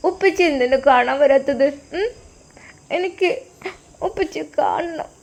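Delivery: put-on high, childlike voice of a small daughter; little girl voice. Daughter calling her father on the phone, high childlike voice.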